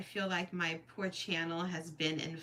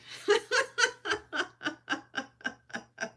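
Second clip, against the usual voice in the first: teary laugh; 13 semitones higher than usual. Real, not acted. Fighting tears, laughs it off.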